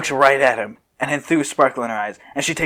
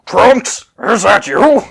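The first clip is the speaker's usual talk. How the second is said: called out louder and higher; calling out; 7 semitones higher, 9 dB louder, slower than usual. Acted. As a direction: call to him from a distance. Calling out from behind.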